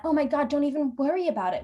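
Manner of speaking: lightly acted no-worries tone; breezy reassurance. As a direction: wave it away, a little hammed-up. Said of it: "expecting me to respond in that".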